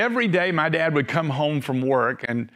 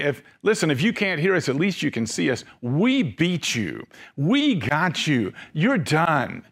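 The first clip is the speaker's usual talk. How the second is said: mocking taunt. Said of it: "wagging their heads and saying".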